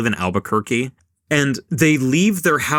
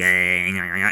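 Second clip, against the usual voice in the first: catatonic groans; 6 semitones lower, slower than usual. Retold or imitated. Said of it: "she's, like, catatonic".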